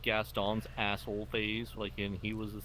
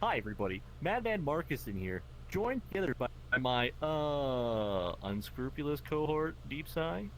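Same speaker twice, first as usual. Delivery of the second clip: lightly voiced co-host intro; a hint of a hammy host; Madman Marcuson impression. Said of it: "how's my Madman Marcuson impression".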